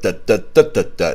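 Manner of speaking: mock stammering duhs; stutter rhythm. Shown as a demonstration. Explaining the actress's halting delivery, mock stuttering duhs. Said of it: "There's a stutter to it".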